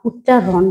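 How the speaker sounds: "উচ্চারণ" slowly, ut-cha-ron; word as spoken. Shown as a demonstration. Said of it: "কিন্তু এটা আমরা বলি কি?".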